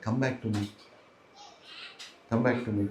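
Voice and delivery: soft, low invitation; tender, hushed coaxing; gentle appeal. Retold or imitated. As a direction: quietly call someone home. Krishna tenderly calling devotees back.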